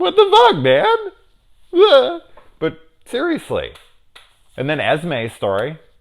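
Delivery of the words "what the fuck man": very high, very loud, very drawn-out exasperated whine. Speaker complaining about a lot of setup for nothing, in a high-pitched voice. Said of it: "my voice is starting to get high pitched".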